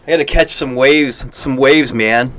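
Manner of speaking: California surfer impression. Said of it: "do I gotta do an impression of it".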